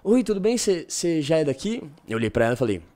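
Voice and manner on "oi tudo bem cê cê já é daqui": imitating barbershop girl. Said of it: "ela olhou pra mim assim e falou".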